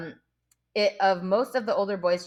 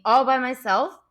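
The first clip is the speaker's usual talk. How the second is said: indignant; 5 semitones higher, 4 dB louder than usual. A narrator's reading. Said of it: "cried Piggy indignantly".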